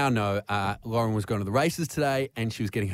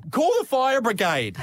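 higher, a touch louder, mock panic; panicky; 11 semitones higher, 3 dB louder than usual. Housemate panicking about the locked bathroom, imitated. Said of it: "in her panic, goes".

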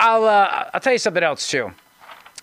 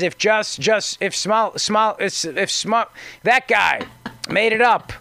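stumbling, halting mock quote, a touch higher; mock Sharpton stammer; 3 semitones higher, slower than usual. Radio host mocking Reverend Al, stammering and tripping over Smollett's name. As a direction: stutter through it, mocking Reverend Al's fumbling. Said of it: "now says".

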